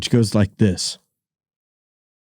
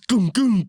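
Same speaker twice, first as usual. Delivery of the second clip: imitated thud; 8 semitones higher than usual. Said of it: "you heard that shit go".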